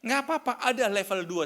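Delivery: high, loud sermon cry to the congregation; preaching at full force. Acted. (khotbah berapi-api, suara tinggi dan keras)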